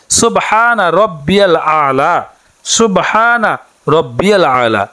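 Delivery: slow, measured Arabic recitation, each word clear; careful recitation. Shown as a demonstration. Teacher showing women the prayer words, slow careful recitation. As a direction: recite it slowly so learners can copy. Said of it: "এটি পড়তে হবে".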